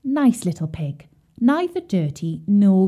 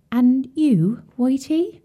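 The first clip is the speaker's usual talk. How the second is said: sad voice; 5 semitones higher, slower than usual. A narrator's reading. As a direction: let disappointment tinge the question. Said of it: "said the mother pig in rather a sad voice".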